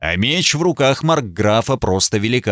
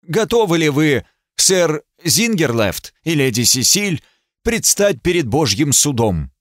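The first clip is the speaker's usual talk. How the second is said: higher, projected call to the crowd; booming voice; 5 semitones higher than usual. Acted. Judge calling both parties to trial by combat. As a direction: boom it across the square. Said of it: "сказал зычным голосом".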